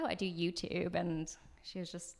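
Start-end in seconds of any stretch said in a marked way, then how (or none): 0.0-1.0 lightly put-on Australian accent; attempted Australian accent. Imitating an Australian YouTuber explaining her job, attempted Australian accent. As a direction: have a rough go at sounding Australian. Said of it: "that's my attempt at an Australian accent".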